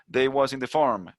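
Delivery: slow Southern US drawl, mocking cowboy speech; a light imitation of a Southern US accent; mock Southern twang. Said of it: "con ese tonito al final". (leve imitación de acento sureño de Estados Unidos)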